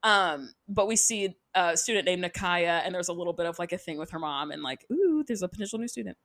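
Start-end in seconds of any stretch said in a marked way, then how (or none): 4.9-6.2 quick mock-secretive whisper; intrigued whisper. Recapper teasing a potential new student, intrigued whisper. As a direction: whisper it like a juicy teaser.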